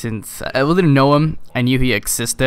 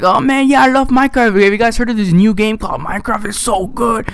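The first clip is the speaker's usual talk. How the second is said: much higher, louder mock rave; mock excited kid; 9 semitones higher, 4 dB louder than usual. Imitating the annoying kid pitching Minecraft to classmates, high and loud. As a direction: gush like a know-it-all kid.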